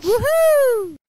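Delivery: high, bright cheer of victory; excited whoop. Acted. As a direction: shout woohoo like you just won. Celebration after game is solved.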